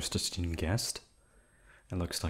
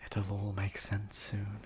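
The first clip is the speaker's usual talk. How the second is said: soft and slow; 6 dB quieter, slower than usual. Acted. Soothing the victim.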